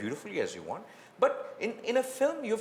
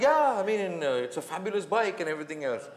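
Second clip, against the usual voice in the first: laughing reply; 3 semitones higher, 4 dB louder than usual. Retold or imitated. Retold own laughing reply.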